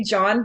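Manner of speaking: JOHN with an uncertain questioning end; questioning intonation. Shown as a demonstration. Coach showing how people say their name, questioning intonation. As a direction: let JOHN lift hesitantly like a question. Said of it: "they say it like it's a question".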